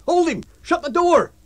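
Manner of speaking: loud, high yells; shouting. Acted. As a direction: bark orders in the scuffle. Brawl, men shouting orders.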